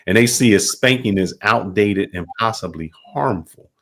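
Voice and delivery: ordinary talk, nothing marked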